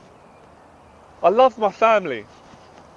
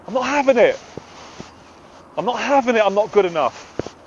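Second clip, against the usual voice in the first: impassioned, raised-pitch refusal; passionate; 3 semitones higher than usual. Real, not acted. Speaker refusing the negative voice, passionately. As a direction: push back with feeling. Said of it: "I'm getting passionate".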